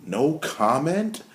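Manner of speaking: slow, rising disbelief on "comment"; incredulous question. Real, not acted. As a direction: echo "No comment?" slowly, incredulous. Repeats the reply in disbelief.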